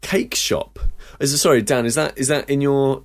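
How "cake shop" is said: whispered, mock disbelief; incredulous whisper. Real, not acted. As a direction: breathe it out like it's absurd. Mocking Dan's quaint cake shop.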